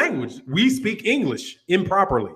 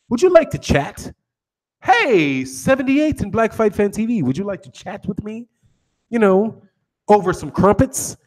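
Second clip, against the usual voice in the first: mock pompous. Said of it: "unless they're trying to be pompous".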